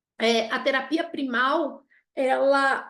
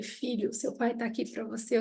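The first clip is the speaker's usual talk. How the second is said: softer, hushed retelling of a father's comfort; gentle father's words; 6 dB quieter than usual. Retold or imitated. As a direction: quietly hand over the father's reassurance. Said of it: "quando ele ouviu o homem dizer". (pai consolando o filho, com voz baixa e terna)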